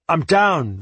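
high, loud call upward. Acted. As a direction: call it up from below. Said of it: "I called up".

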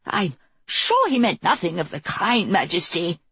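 high, panicky exclaiming. Acted. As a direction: rush out in panic. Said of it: "exclaimed in a high, panicky voice".

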